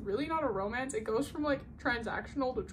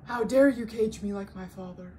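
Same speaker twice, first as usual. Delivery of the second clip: louder, lightly voiced indignant princess; indignant Jasmine; 6 dB louder than usual. Jasmine defying Jafar, mock indignant. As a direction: hurl it back at him, offended. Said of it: "And she goes".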